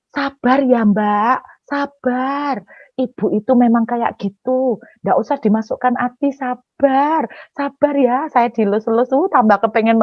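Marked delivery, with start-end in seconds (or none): 0.1-8.2 imitated consoling. Congregation members comfort the hurt preacher, imitated soothing. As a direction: gently hush her, mimicking kindly churchgoers. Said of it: "Terus bilang gini".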